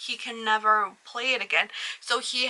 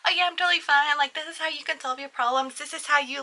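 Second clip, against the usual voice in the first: feigned fine; 5 semitones higher, faster than usual. Retold or imitated. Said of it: "we just see him being like".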